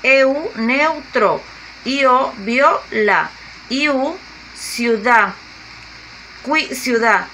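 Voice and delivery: diphthong first, then its word, slowly syllable by syllable; slow syllable demonstration. Shown as a demonstration. Teacher showing how diphthongs form words, slow and syllabified. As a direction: spell out each vowel pair and stretch the example word. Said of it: "Tenemos U A, formamos la palabra".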